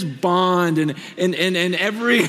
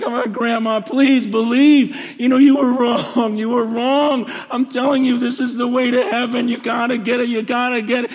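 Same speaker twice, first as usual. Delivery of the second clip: insistent plea, re-enacted without real bawling; retold tearful begging. Grandson begging his dying grandmother to believe, urgent re-enactment. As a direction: urge and implore, pressing each phrase. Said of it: "I'm bawling. I'm just crying like a baby".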